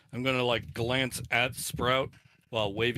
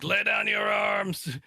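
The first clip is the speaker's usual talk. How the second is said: high, loud, drawn-out battlefield proclamation; screamed command; 8 semitones higher, 6 dB louder, slower than usual. Acted. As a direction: call it out slowly to an enemy army. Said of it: "scream out to the enemies".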